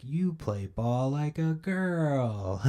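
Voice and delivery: put-on slow, high whispered kid taunt; Sandlot taunt. Vlogger mocking The Sandlot, slow whispered jeer. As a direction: whisper it out slowly like a playground jeer. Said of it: "fucking The Sandlot?".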